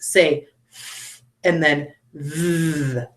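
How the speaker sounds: slow "th" unvoiced first, then "th" voiced with a buzz; 慢慢说，先清音th，再浊音th. Shown as a demonstration. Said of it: "how it's voiced".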